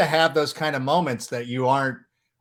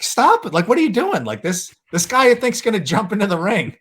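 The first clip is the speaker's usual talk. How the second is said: higher, louder mock yell at the guard; retold yelling; 8 semitones higher, 4 dB louder than usual. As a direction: shout him down like a frantic fan. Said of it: "yelling at the security guard".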